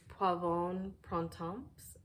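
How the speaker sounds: Poivron Printemps in a careful, amateur French accent. Shown as a demonstration. Reviewer naming a perfume to her viewers, in a hesitant French accent. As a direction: attempt the French name in a French accent, not quite sure of it. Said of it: "trying to say it in a French accent".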